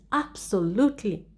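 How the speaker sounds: Absolutely. said as an emphatic exclamation; exclamatory intonation. Shown as a demonstration. Teacher modelling answer on museums' importance, exclamatory Absolutely. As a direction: stress "Absolutely." and let it fall. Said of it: "you have the exclamation mark there".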